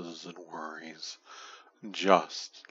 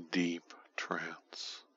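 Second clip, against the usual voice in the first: soft close whisper; right in your ear; 5 dB quieter than usual. Acted. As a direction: breathe it into the ear. Whispered trance word.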